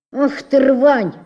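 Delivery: loud, slow, contemptuous cry; scornful shout. A narrator's reading. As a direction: spit out the insult loudly and slowly. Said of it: "сказала утюжная плитка и гордо". (громко и медленно, с презрением: «Ух ты, рвань!»)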